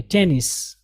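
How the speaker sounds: टेनिस, brisk; quick tennis. Shown as a demonstration. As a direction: clip टेनिस short and quick. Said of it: "थोड़ा सा जल्दी पढ़ेंगे".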